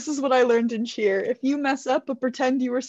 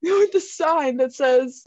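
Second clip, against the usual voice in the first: careful enunciation; slower than usual. Shown as a demonstration. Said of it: "Wonderful enunciation".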